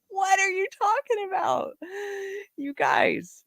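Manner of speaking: very high squeal through laughter; laughing disbelief. Retold or imitated. Host cracking up at the ad with viewers, laughing disbelief. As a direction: squeak it out, helpless with amusement. Laughing reaction to ad's innuendo.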